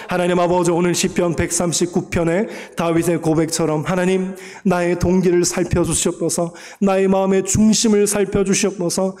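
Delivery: congregation's loud prayer, led in fervent cry. Real, not acted. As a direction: pour it out to God over the music. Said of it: "통성으로 기도하겠습니다".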